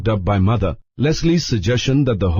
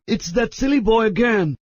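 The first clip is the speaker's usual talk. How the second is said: high, exasperated bellow in Larry's voice; 11 semitones higher than usual. A narrator's reading. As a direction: bellow it out, fed up with the boy. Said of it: "bellowed Larry".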